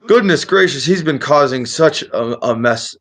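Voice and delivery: put-on high-pitched, astonished old wizard; loopy friendly wizard. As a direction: marvel at their feat as a dotty old man. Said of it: "a little loopy friendly".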